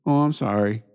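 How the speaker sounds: lightly mimicking a careless apology; mock apology. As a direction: toss off a hollow sorry. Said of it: "that's exactly how they say it".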